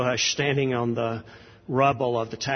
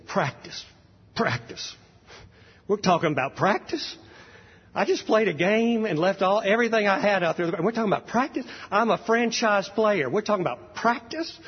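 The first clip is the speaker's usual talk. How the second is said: much higher, louder, incredulous retold rant; Allen Iverson rant; 8 semitones higher, 3 dB louder than usual. Preacher imitating a basketball star ranting at reporters about practice, mock-indignant and loud. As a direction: pile up the outrage at the word practice, climbing each time. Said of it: "he just went off on a rant".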